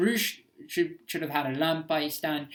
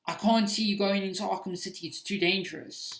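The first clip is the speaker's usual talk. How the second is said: worried butler; 4 semitones higher, 4 dB louder than usual. Retold or imitated. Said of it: "when Alfred should have said".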